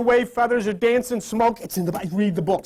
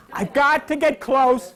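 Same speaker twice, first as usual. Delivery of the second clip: said aloud; 4 semitones higher, slower than usual. Shown as a demonstration. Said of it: "Say it".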